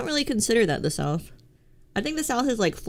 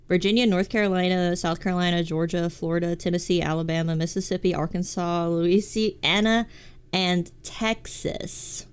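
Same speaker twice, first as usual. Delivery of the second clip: flat northern reading of the state names; plain northern voice; northern accent. Shown as a demonstration. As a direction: list the states like a northerner, slowing at the end. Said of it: "I'm saying it like a northerner".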